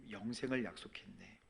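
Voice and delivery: hushed spoken lyric; spoken softly. Retold or imitated. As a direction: recite the line quietly to yourself. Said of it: "이 찬양이 죄악의 사슬에서".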